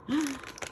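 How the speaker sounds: quick high gasp; startled gasp. Real, not acted. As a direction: gasp in sudden dismay. Alarmed that the die is stuck.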